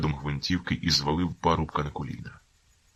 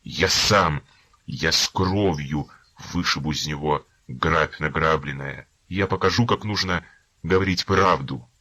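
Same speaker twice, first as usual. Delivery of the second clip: shouting in frenzy; 4 dB louder than usual. Acted. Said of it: "вигукував раз у раз".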